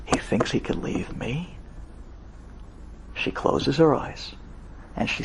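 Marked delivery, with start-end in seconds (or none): 0.1-1.6 soft, breathy scornful whisper; menacing whisper. Retold or imitated. Sonia the witch whispering her threat to herself, softer. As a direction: hiss it like a witch plotting revenge. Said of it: "She said".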